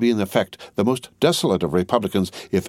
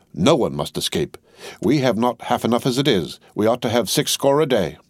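mild croak; 4 semitones higher than usual. Acted. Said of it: "croaked Jacques three".

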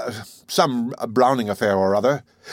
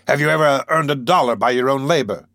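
a gloating challenge, louder; triumphant vindictiveness; 3 semitones higher, 4 dB louder than usual. Acted. Wolf Larsen challenging Maud, triumphant and vindictive. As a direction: sure he has caught her out, let it ring. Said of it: "a triumphant vindictiveness in his voice".

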